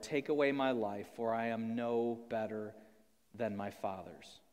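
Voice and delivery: hushed, weary Bible reading; solemn scripture reading. Acted. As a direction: read the passage gravely, falling away at the end. Reads scripture aloud.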